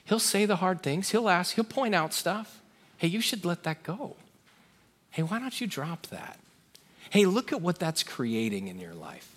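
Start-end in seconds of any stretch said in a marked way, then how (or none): 3.0-9.3 gently pointing something out; a mild, kind suggestion without blame; non-judgmental nudge. Acted. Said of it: "it's not gonna be judgmental".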